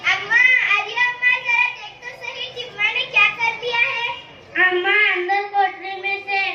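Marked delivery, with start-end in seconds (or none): 0.1-4.1 mildly raised call for her mother. Acted. Nasibun calls her mother in a panic, a mild raised call. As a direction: call out to her, a little hurried. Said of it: "अपनी माँ को आवाज देती है".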